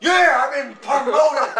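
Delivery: loud, slow cheer; triumphant shout. Real, not acted. Gamer just promoted in the game, triumphant shout. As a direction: crow it out at full voice.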